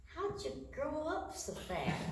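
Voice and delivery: high, softly voiced question; mama's wondering question. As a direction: ask it in soft, high-pitched wonder. Retold question from her mama.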